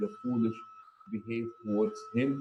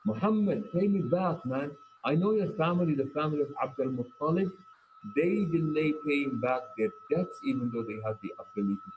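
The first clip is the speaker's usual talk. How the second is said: mildly raised, rude demand; mock hostile yelling; 4 semitones higher than usual. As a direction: demand it back in a retold yell. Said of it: "made in a yelling, very hostile tone".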